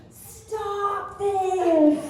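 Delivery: high mock yell down the phone; mock scream. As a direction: squeal it like an annoyed daughter. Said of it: "screamed down the phone".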